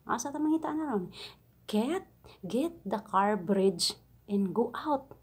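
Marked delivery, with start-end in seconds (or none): 1.7-5.2 slow, lightly voiced broken English order; a hint of the bossy employer; mild boss imitation. Maid mimics the boss's order once more. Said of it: "Ganito ang pagkasabi".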